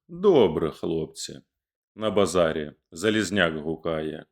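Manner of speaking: dramatic epic verse reading, rising on place names; poem recitation. A narrator's reading. Reader recites Shevchenko's Haidamaky to listeners, dramatic. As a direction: declaim the burning towns like a bard.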